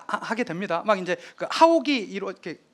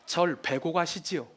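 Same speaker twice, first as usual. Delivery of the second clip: 담담한 결의; 2 semitones lower, slower than usual. Retold or imitated. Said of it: "얘기를 합니다".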